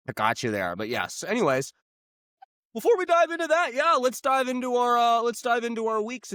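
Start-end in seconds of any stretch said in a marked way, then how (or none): 2.7-6.3 squeaky put-on voice slipping out; popping out. Host starting the week recap in a squeaky put-on voice. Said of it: "it's just kind of popping out on accent".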